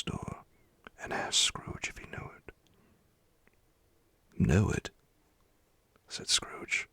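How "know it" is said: high, loud rising exclamation; astonished exclamation. A narrator's reading. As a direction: burst out in astonished recognition. Scrooge recognizes his old workplace.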